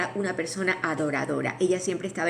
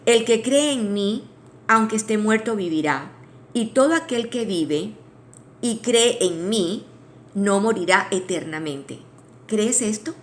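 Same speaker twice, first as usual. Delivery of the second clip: scripture reading. Shown as a demonstration. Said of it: "y lo voy a leer".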